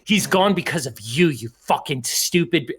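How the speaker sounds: furious accusation, kept just short of yelling; boiling anger. Acted. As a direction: blame her with seething rage. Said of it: "his blood is clearly boiling over something".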